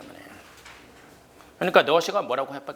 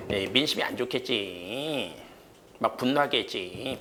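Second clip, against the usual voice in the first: normal talking voice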